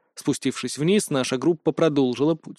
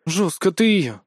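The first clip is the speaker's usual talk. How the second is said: sighed; 4 semitones higher, slower than usual. A narrator's reading. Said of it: "вздохнула Рудольф".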